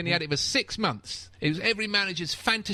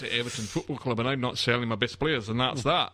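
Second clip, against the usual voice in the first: put-on Scottish accent; 3 semitones lower than usual. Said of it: "sorry about this accent".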